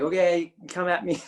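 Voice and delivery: put-on half-hearted go at a Texan-tinged American accent; old teacher's American accent. Old teacher inviting a student to attack, loosely imitated American accent. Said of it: "I can't do his accent at all".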